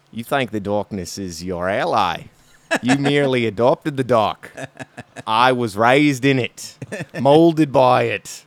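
a hammed-up Australian take on a dark villain speech; slow, menacing Aussie accent, dragging out the last words. Podcaster parodying a villain in an Australian accent: slow, mock menacing. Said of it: "do my Australian accent".

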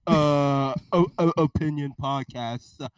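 lightly voiced blustering president; a hint of a rambling politician; president impression. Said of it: "Mister President".

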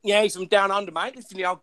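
put-on Australian, warming up into it; lightly faked Australian accent; Aussie accent. Shown as a demonstration. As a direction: have a go at an Aussie greeting. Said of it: "I could do an Aussie".

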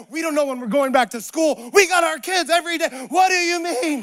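lightly hammed-up incredulous protest; mock exasperation. Congregation challenging Jesus over crisis, mock exasperation.

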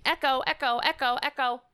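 mock the chorus complaining about echo; mock yelling echo. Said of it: "everybody's yelling at me".

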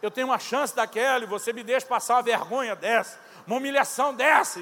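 reclamação mais alta, indignada; queixa-se indignado, subindo o volume; aborrecido. Retold or imitated. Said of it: "eu tava assim, aborrecido". (aborrecido, protestando)

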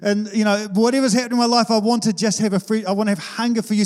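preacher praying to be desperate for Jesus, earnest and fervent; fervent prayer. Retold or imitated. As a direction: pray it like you're stirring up the church. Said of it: "shake the cage every now and then and say".

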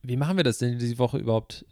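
slightly slurred words; tongue tripping over the words; slurring. Real, not acted. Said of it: "Oh, jetzt lalle ich, ich lalle schon".

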